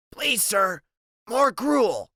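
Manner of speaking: high, pleading little beggar; begging orphan voice. Acted. Freak's begging Oliver Twist line.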